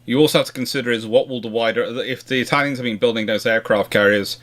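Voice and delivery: usual speaking voice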